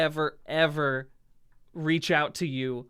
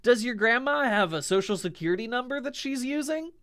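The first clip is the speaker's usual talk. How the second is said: scammer impersonating him; 7 semitones higher than usual. Pretend. Mocking a scammer who poses as him to fans. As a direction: wheedle like a sleazy scammer begging. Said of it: "I will never be like".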